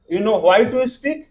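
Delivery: very slow, word by word; slow dictation. Shown as a demonstration. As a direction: dictate the sentence slowly. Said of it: "teacher dictating full sentence". (धीरे-धीरे लिखवाना)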